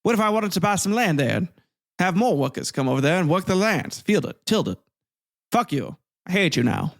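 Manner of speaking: mock Southern slaveholder. Southern states answering Lincoln, a hint of an indignant planter. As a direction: huff like an offended plantation owner, lightly done. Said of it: "They're like".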